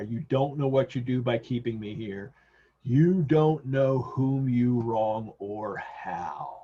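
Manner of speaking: slow, weighty warning with drawn-out words; understated slow warning; ominous warning. Acted. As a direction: lean on it slowly, like a dark hint. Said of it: "the warning there".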